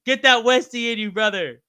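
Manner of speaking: slow, high, loud drawn-out cheer; rowdy pub-lad rallying call, stretched out; pub hype cheer. Pretend. Streamer cheers a viewer heading to the pub, loud and slow. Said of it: "channeling my inner Westy at the pub".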